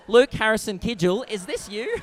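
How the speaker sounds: mock outraged mum; scandalised mum. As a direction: burst in and confront your son. Imagined mum bursts into room.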